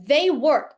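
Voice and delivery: "They work" said firmly; English demo. Shown as a demonstration. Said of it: "tô com duas pilhas na mão e falo".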